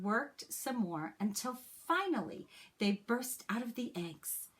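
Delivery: put-on gentle, expressive read-aloud for children; story narration. A narrator's reading. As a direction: read it like a teacher sharing a picture book with the class. Reads a picture book to class.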